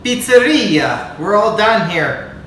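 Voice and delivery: high, loud hammed-up Italian chef; jolly italian pizza chef. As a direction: announce it like a proud pizzaiolo. Proud finish, mock Italian flair.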